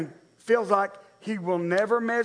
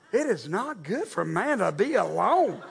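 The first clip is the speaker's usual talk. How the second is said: laughing; 3 semitones lower than usual. Retold or imitated. Retelling verdict while laughing.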